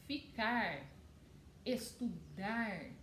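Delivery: ficar, estudar split by syllable, ending held on ar; highlighted ar ending. Shown as a demonstration. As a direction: dwell on the final ar of ficar, estudar. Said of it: "que tem o som de ar". (ficar, estudar com o ar final destacado)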